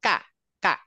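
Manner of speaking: কা with the mouth open, not rounded; light open kaf. Shown as a demonstration. Teacher shows students the open light কা. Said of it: "মুখটা কিন্তু গোল হচ্ছে না".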